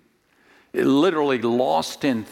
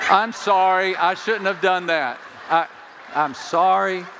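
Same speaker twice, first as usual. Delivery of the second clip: mock apology; 3 semitones higher than usual. Real, not acted. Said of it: "My wife told me not to do that".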